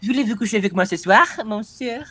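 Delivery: a light French accent on "Voulez-vous coucher avec moi ce soir, monsieur?"; flirty put-on French accent, lightly done. Shown as a demonstration. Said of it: "se você quiser fazer um sotaquezinho".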